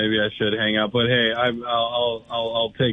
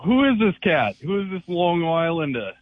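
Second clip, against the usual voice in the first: excited; 7 semitones higher than usual. Real, not acted. Caller hears the new guy.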